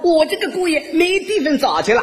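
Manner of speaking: put-on high-pitched, gushing old mother-in-law; praising mother-in-law. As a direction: brag about your son-in-law to all the neighbours. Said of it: "一边夸我". (岳母尖声夸女婿)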